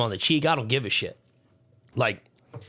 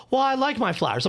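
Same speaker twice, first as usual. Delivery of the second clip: mocking girlfriend voice; 10 semitones higher than usual. Mimicking ex-girlfriend in argument.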